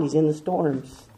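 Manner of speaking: hushed reply. Shown as a demonstration. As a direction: drop the voice on He's in the storms. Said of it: "where is he found".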